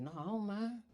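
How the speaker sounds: hushed nervous consent; hushed reply. Retold or imitated. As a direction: barely say it. His hushed reply on stretcher.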